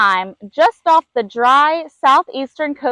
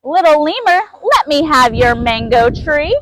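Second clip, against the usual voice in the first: fire roaring; 2 semitones higher than usual. Acted. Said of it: "the fire roared".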